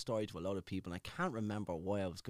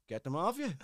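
barked order; 7 semitones higher than usual. Retold or imitated. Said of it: "And he goes".

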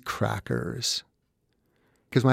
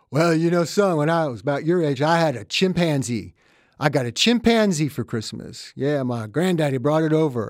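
lightly voiced father; 2 semitones higher than usual. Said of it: "and my father said".

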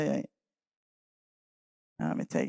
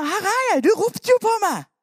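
put-on eager boy; 10 semitones higher, faster than usual. Samuel running to Eli.

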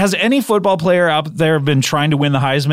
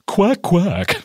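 duck quack. Pretend. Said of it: "you voice him".

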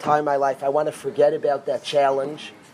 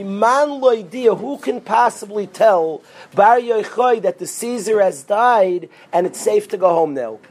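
higher, louder, slowed cry; prophet crying out; 4 semitones higher, 5 dB louder than usual. Retold or imitated. Eliyahu cries out his news at the cave door, loud. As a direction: call out over and over at the door. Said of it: "He screams by the door".

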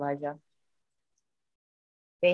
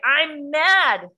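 high, emphatic mock outburst; retold anger; 9 semitones higher, 3 dB louder than usual. Mother telling her daughter how she felt, retold anger. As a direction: declare it in a raised, worked-up pitch.

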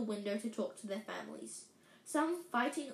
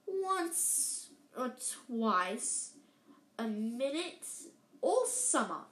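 teasing drawl; much slower than usual. Acted. Twin teasing Percy.

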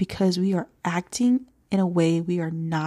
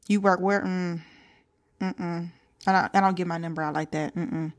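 dismissive attitude. Retold or imitated. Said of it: "It's like".

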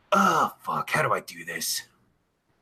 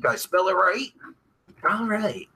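ordinary delivery

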